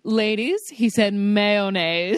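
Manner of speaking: slow, grave reveal with a laugh behind it; scandalized friend announcement. Acted. Woman telling friends at breakfast about the date, scandalized. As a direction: drag out mayonnaise as shocking gossip. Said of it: "They come to breakfast the next morning like".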